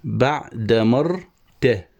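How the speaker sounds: very slow, syllable by syllable; scanning a foot. Shown as a demonstration. Teacher matching verse to its metrical foot, slow scansion. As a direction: draw out each syllable with breaks between. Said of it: "وهنا تنتهي التفعيلة".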